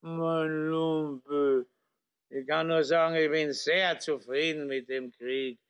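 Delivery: put-on slurring drunk officer; town drunk. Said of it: "liegt betrunken im Coupé lallend".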